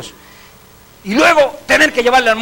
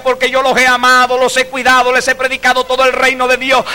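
louder, higher preaching declaration; Pablo's proclamation; 5 semitones higher, 3 dB louder than usual. Acted. Paul defending his ministry to the elders, preaching loud. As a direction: proclaim it like the apostle at farewell. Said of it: "Oiga usted cómo dice Pablo".

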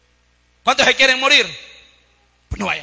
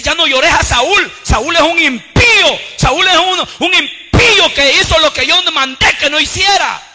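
slow, loud and stern divine rebuke; voice of God; 6 semitones higher, 6 dB louder, slower than usual. Acted. God scolding Samuel over impious Saúl, slow loud command. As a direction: drag out each word like a judgment. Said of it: "Le dice".

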